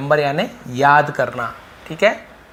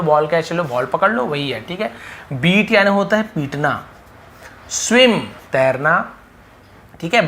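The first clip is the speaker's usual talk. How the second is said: normal talking voice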